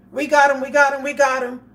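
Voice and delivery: loud triumphant cop yelling; mock cop shout. Vlogger mocking TV cops with a loud triumphant shout. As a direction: shout it like cops bragging over the radio.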